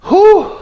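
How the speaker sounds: high, loud whoop of relief; sharp, high "whew". Real, not acted. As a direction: let out a big, high-pitched whew. Exhales after market roller coaster recap.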